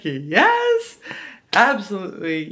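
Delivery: high, loud eager yes. Retold or imitated. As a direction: jump at the offer. Eagerly agreeing to skip game.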